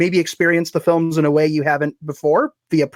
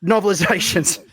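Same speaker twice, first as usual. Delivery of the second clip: broad hammed-up Australian accent, pitched up; 3 semitones higher than usual. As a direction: go all in on a big Australian accent. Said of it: "the problem with my Australian accent".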